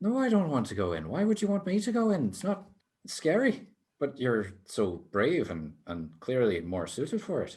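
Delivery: peevish, squabbling, bickering tone with swinging pitch. Narrating a voice that answers another voice, slightly squabbling. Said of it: "slightly squabbling conversation".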